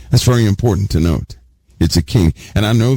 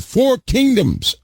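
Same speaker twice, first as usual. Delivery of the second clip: crowd's reply; 14 semitones higher, slower than usual. Retold or imitated. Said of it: "They said".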